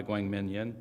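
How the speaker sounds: slow, careful try at a hard Korean name. Real, not acted. Host at a Korea session carefully introducing the speaker, slow and careful. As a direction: spell out Guang Min Yin syllable by syllable, slowly. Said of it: "And if I say it quickly".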